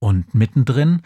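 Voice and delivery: plain reading voice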